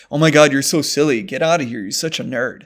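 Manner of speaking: light offhand teasing. Shown as a demonstration. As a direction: toss it off like a joke to a buddy. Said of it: "often with a lighter voice".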